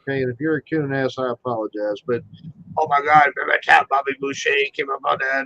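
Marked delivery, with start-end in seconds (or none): 2.8-5.4 mumbled Cajun gibberish; South Louisiana Cajun. Retold or imitated. Co-host mimicking South Louisiana folk, mumbled Cajun patter. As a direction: imitate a Cajun running words into babble. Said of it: "in South Louisiana, we have coon asses".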